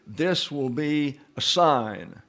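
"this will be a sign" said slowly, each word weighed; stressed italic words. Shown as a demonstration. Teacher pointing students to the italics, slow and deliberate. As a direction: read it out deliberately, marking the italics. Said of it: "and note the italic here".

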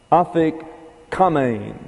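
afikomen drawn out slowly, ending in a long "mane"; correct Greek pronunciation. Shown as a demonstration. Teacher showing how the word is pronounced, afikomen slow with a long-A ending. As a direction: say afikomen syllable by syllable, last syllable a long English A. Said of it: "the way you pronounce this is".

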